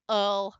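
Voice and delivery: the ul said as a slack uh-l; lazy ul. Shown as a demonstration. Teacher isolating the schwa in camel. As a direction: drop into a lazy ul. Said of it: "our lazy schwa".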